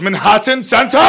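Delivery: imitated sudden punchline yell; mildly shouted, out of the blue; out-of-nowhere outburst. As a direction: blurt it as a mock yell. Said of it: "nothing leading up to it".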